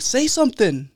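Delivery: high-pitched exasperated retelling; fed up. Retold or imitated. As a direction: imitate a barber losing patience. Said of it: "fool got fed up with him".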